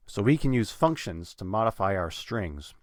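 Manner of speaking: "functions" stressed on its first syllable. Shown as a demonstration. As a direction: lean on the word "functions". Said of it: "I'm putting stress on that".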